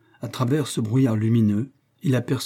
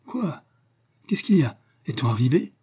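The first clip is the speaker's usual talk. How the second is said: jolted awake, a high startled stammer then trailing off; dazed stammer; 4 semitones higher than usual. Acted. Robert wakes on the train, stammering dazed and sleepy. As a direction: stammer like someone shaken out of sleep. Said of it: "balbutia-t-il ahuri et somnolent".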